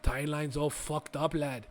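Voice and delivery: loose, inconsistent put-on accent; John Constantine accent. Constantine warning Barry about the timeline, loose put-on accent. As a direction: do a wandering character accent, casually. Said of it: "I don't know why I'm giving that accent".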